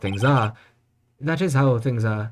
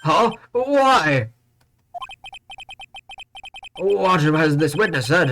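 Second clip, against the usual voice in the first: panicked surprise; 7 semitones higher, much slower than usual. Acted. Panicked game character reaction.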